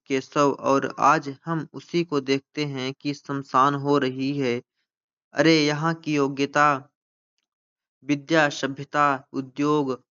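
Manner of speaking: slow, measured declamation; dramatic play reading. Acted. Teacher reading Bharat's lament to students, slow declamation. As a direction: read the lament out in drawn-out phrases. Reads the play's lament aloud.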